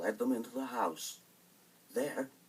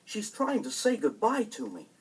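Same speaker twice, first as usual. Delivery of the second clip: put-on childlike Hansel; 9 semitones higher, 4 dB louder than usual. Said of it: "said Hansel".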